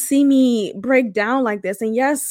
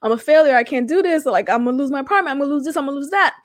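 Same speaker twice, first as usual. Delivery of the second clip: retold mild panic, pitched up a little; overwhelmed; 3 semitones higher, much faster than usual. Recalling money stress to her cousin, mildly panicked. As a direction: let the worries tumble out in a rush. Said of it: "so overwhelmed with that".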